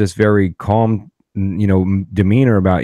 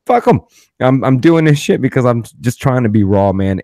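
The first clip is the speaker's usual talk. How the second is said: high-pitched, louder fuck 'em; defiant outburst; 4 semitones higher, 3 dB louder than usual. Retold or imitated. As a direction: shrug it off hard and loud. Defiant inner reply rejecting monetizing.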